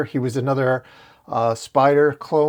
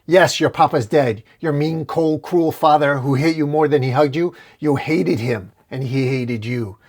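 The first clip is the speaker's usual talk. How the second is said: mock yell; 3 semitones higher than usual. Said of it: "Carnage yells".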